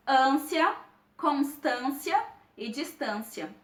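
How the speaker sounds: "ânsia, constância e distância" slowly, with a nasal â; nasalized vowels. Shown as a demonstration. Teacher illustrating circumflex on A, nasalized â in "ânsia, constância e distância". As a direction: send the â through the nose in "ânsia, constância e distância". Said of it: "e sim de uma maneira nasalizada".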